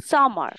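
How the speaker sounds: সামার said sama, no r at the end; no final r. Shown as a demonstration. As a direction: drop the r in সামার. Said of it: "রটা উচ্চারণ করবো না". (সামার, শেষের র বাদ দিয়ে)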